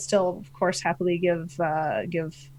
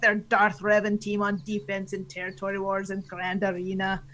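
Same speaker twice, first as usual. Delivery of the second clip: Canadian pirate; 4 dB louder than usual. Acted. Finishing the team question, Canadian pirate voice. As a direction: finish like a comic pirate captain. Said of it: "your Canadian pirate voice".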